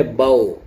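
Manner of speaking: باؤ as a broad "bao"; wrong "ao" pronunciation. Shown as a demonstration. Teacher mimics mistaken learners, باؤ turned into bao. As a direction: end باؤ on an open o, not oo. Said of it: "تو یہ تو او ہو گیا".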